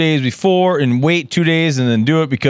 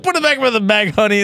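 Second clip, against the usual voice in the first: higher, sassy patient voice; imitating receptionist; 6 semitones higher than usual. Man mimics receptionist telling him to bag his sample, higher sassy. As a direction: talk him down like a receptionist who's seen it all. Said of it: "she's like".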